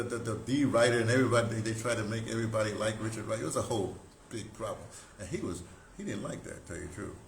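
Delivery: ordinary delivery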